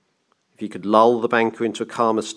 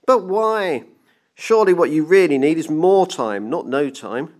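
high-pitched anxious protest; nervous pleading; 7 semitones higher, 4 dB louder than usual. A narrator's reading. Clockmaker pleading with the ranting banker, nervous. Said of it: "The clockmaker gulped".

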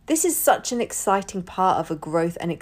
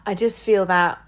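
whisper; 4 dB louder than usual. Real, not acted. Whispered aside.

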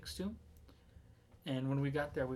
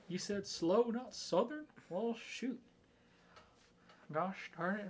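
put-on southern accent; 6 semitones higher than usual. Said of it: "I can speak in a southern accent".

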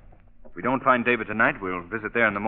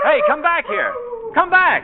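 high, loud call after someone running; loud high yell into the night; 7 dB louder than usual. Acted. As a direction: shout after him to stop. Calling after the fleeing man.

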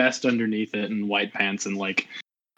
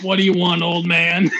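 annoyed; 6 semitones higher, 4 dB louder than usual. Acted. Player character confronts old man.

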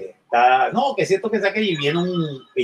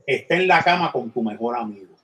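Al Pacino as devil; 3 semitones lower than usual. Retold or imitated. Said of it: "Al Pacino y dice".

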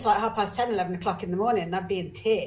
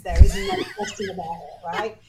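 laughing; 7 dB louder than usual. Real, not acted. Laughing at own emotionality.

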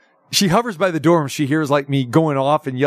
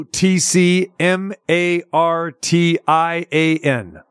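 spelled out slowly; much slower than usual. Shown as a demonstration. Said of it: "the text reads".

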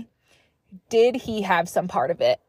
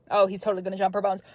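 fast, casual; much faster than usual. Retold or imitated. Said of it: "I was like".

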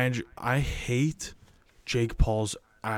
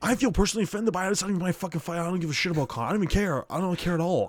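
worked-up rant; 7 semitones higher, faster than usual. Real, not acted. Ranting about Jake Paul.

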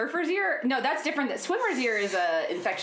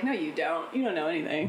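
put-on Southern accent; 2 semitones lower than usual. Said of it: "a Southern hick accent".

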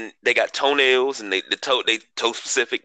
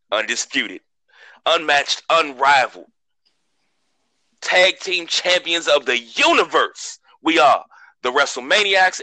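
wrestling promo. Acted. Wrestling promo self-introduction.

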